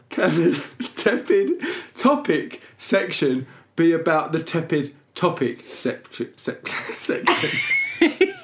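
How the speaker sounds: slow, careful attempt collapsing into laughter; losing composure. Real, not acted. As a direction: hold back giggles, then crack. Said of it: "Let me get my composure".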